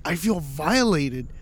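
slow, drawn-out complaint; mock wounded. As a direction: play up being wronged, dragging the words.

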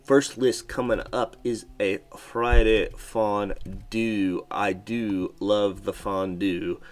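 slow, drawn-out announcer. Acted. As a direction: read the title slowly, savouring.

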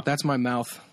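chirping cricket voice. Real, not acted. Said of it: "that's a crazy cricket impression".

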